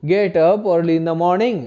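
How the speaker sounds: teacher models an English question slowly. Shown as a demonstration. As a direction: dictate each word slowly. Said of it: "क्या बोलेंगे?".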